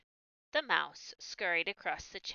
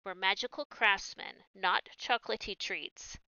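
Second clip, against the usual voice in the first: louder, offended brownie; indignant grouch; 3 semitones higher, 5 dB louder than usual. Acted. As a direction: huff it out, insulted.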